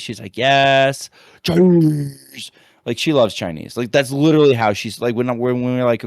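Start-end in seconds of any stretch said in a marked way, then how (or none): 0.4-2.5 put-on lightly higher little girl, louder; a hint of a five-year-old's eager yes; mild kid voice wanting takeout; daughter's voice. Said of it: "just doing my daughter's voice".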